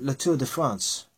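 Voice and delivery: "La Tour de France" with a French accent. Shown as a demonstration. A vlogger talking about cycling shows off a French accent. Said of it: "excuse my French accent".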